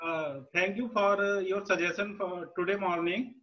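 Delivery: barely audible, faint speech; speaking too softly to hear; very low voice. Real, not acted. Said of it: "Sir, your voice is very low".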